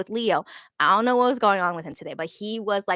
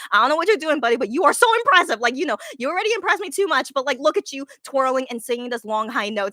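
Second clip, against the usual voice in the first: excited cheering; 4 semitones higher than usual. Retold or imitated. Cheering on impressive actor.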